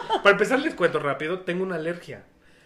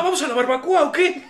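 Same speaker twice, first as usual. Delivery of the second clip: laughing; 8 semitones higher, 6 dB louder than usual. Pretend. Joking about partying till morning.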